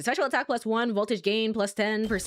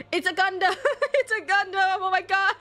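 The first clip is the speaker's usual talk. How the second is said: excited laughing shout; 10 semitones higher than usual. Real, not acted. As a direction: shriek it with delight. Giant robot boss, laughing.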